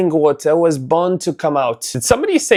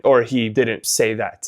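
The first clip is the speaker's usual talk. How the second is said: usual speaking voice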